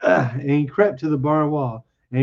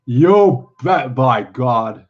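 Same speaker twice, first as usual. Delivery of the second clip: mildly delighted exclamation, punched at the start; happy cry; 4 dB louder, much slower than usual. Acted. Simple man chuckles over velvet, mildly happy cry. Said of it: "he cried happily".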